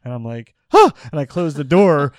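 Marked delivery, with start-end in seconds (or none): 0.7-0.9 sharp, loud startled "huh"; sudden loud intake of surprise; startled gasp. Retold or imitated. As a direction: gasp as if caught off guard. Startled on seeing a stranger.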